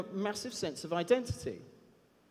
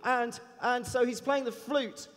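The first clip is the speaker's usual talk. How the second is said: lightly voiced eager kid, pitched higher; a hint of a chatty boy from Harlem, higher; ten-year-old kid; 4 semitones higher than usual. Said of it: "I won't do his accent".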